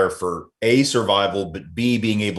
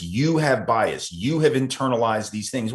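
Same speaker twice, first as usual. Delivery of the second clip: mock lecturing tone. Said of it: "same thing with implicit bias".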